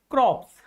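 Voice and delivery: crops with P and S sounded; mispronunciation. Shown as a demonstration. Teacher quotes students' mistake, crops with every consonant sounded. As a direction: read crops just as it is spelt. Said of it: "But this is not crops".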